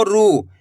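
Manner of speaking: रू said again with a long ऊ; drawn-out ru. Shown as a demonstration. Teacher repeating the long vowel. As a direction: hold the ऊ of रू. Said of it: "खींच खींच के पढ़ना है आपको".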